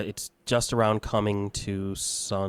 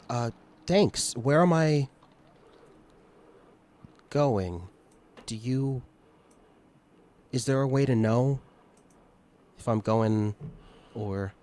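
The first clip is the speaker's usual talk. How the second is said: higher, halting voice with long searching pauses; uncertain, feeling out each phrase, pitched up; hesitant newly dead climber; 5 semitones higher, 5 dB louder than usual. Acted. Newly dead climber asking a guide where he's going, hesitant.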